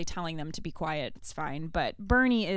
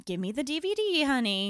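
higher, sugary mock voice; mock sweet librarian; 6 semitones higher than usual. Mom mocking the librarian repeating her own words, higher mock sweet voice. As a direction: parrot the librarian with fake sweetness. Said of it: "the librarian's like".

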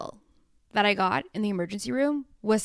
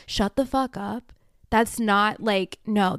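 usual speaking voice

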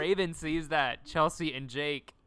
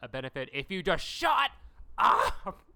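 Raven snapping; 5 dB louder than usual. Retold or imitated. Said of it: "And she goes".

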